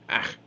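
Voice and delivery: short cry of dismay; brief shocked outburst; yelled "Ah". A narrator's reading. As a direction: exclaim sharply as a dwarf. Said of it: "yelled one dwarf".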